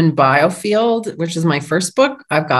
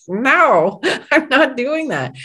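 laughing refusal; 6 semitones higher, slower than usual. Retold or imitated.

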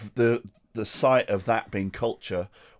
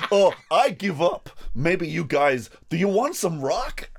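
mock resigned conductor; 6 semitones higher, 4 dB louder, slower than usual. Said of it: "And then it's like".

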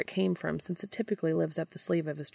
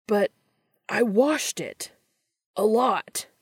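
mild protest; 5 semitones higher, 6 dB louder, slower than usual. A narrator's reading. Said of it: "Dean cries".

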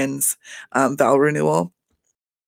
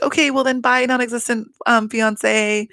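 petty mock goodbye; 7 semitones higher than usual.

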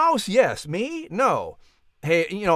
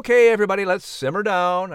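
louder, higher call to order; calming call out; 5 semitones higher, 3 dB louder than usual. Real, not acted. Announcer breaks up quarrel.

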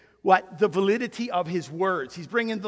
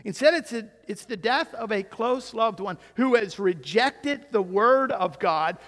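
ordinary talk, nothing marked

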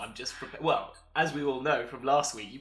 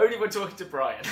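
louder, higher gleeful repeat; teasing echo; 6 semitones higher, 8 dB louder than usual. Real, not acted. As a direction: throw the line back with glee.

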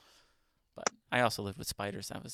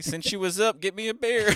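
mock redneck husband; 10 semitones higher, 6 dB louder than usual. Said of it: "Told my old lady".

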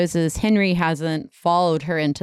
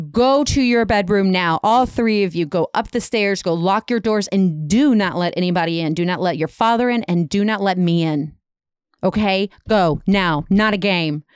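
urgent orders in a half-raised voice; mild retold yell. Mother ordering her children upstairs, mild urgent yell. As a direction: firmly order them away, emphatic, without fully shouting. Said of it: "She yells to her children".

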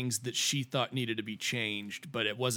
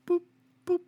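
little "boop" sound effects, spaced apart; short popping boops, one at a time; imitated popping boop; 4 dB louder than usual. Picturing sand coming through tear ducts, imitated boops.

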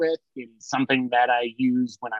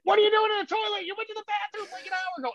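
high, mock-angry dad calling through the bathroom door; imitating dad catching him; dad yelling through door; 3 dB quieter, faster than usual. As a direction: play the suspicious dad banging on the door.

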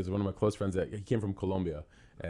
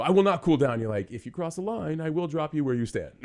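mock angry threat; 8 semitones higher, 6 dB louder than usual. Angry person retold.

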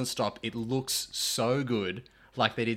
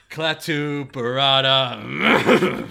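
slow, drawn-out fumbled incantation; mumbled magic words; 2 semitones higher, 10 dB louder, much slower than usual. Retold or imitated. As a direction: stretch out the botched spell. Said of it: "and just the".

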